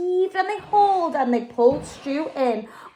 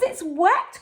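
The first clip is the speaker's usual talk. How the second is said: mild cry; 5 semitones higher than usual. Acted. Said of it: "cried Stu".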